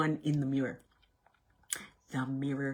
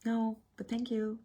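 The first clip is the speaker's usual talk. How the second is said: polite no; 5 semitones higher than usual. Shown as a demonstration.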